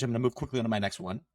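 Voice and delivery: rushed quick delivery; fast. Shown as a demonstration. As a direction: race through the words. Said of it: "I needed to speak really quick".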